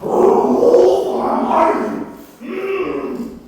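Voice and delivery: mostly whispered, smug mock hydrogen. Comedian voicing hydrogen bragging to a friend. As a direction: purr it like a smug weirdo. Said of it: "And he's like".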